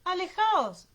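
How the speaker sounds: high, loud urgent command; orden a gritos. A narrator's reading. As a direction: shout them away from danger. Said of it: "les ordenó". (orden urgente a gritos)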